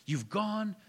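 slow, sly tempter lightly voiced; the devil's voice. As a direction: drag out the accusation like a whisper in the mind. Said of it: "He can bring thoughts into your mind to think".

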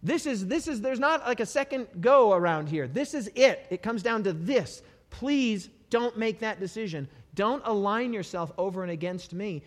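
lightly voiced God warning humanity; God pleading urgently. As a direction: plead earnestly, rising then fading. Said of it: "God's like".

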